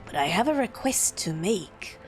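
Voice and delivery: low, measured courtier making a request; sinister bureaucrat. Acted.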